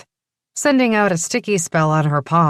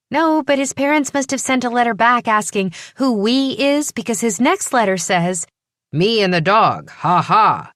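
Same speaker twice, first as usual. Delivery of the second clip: put-on lightly higher eager young woman; 7 semitones higher than usual. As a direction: voice her as a curious young woman. Primrose explaining the letters.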